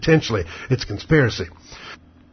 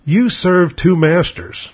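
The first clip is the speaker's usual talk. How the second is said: slow, deliberate statement, pitched up at the start; blunt and direct; 4 semitones higher, much slower than usual. Retold or imitated. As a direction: retell it as a direct, measured challenge. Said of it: "kind of blunt and direct".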